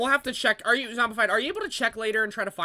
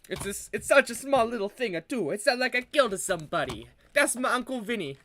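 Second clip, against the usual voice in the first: playful Italian-American protest; mock Italian accent. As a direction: plead in a put-on Italian accent. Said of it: "more black than Italian".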